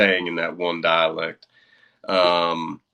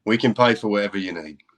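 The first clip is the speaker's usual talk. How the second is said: put-on offhand offer in a British accent; 3 dB louder than usual. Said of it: "That was a fun accent for it".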